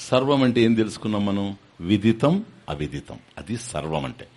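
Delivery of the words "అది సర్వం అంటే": ordinary talk, nothing marked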